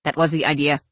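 hissed reply, mildly done; a touch of hiss in the words. A narrator's reading. Senshi to his hostage, mildly hissed. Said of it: "Senshi hissed".

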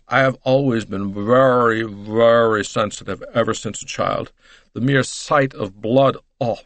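emphatic, dramatic American matron; distressed lady playing up her shock; overwrought American lady. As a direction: dwell theatrically on the key words. Mrs Hubbard recounts her shock in narration.

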